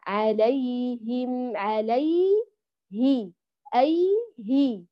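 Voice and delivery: "عليه" slow, the ay sustained right up to hi; long, complete yaa in "عليه"; fully flowing yaa. Shown as a demonstration. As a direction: stretch the glide in "عليه" and "أي هي". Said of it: "يجري كاملًا".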